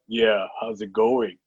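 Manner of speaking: slow, understated imitation of a cool actor; low, slow-paced voice. Actor answering an overexcited fan, low slow-paced voice. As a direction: lightly imitate a laid-back star, taking it slowly. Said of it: "in his low, uh, slow-paced voice".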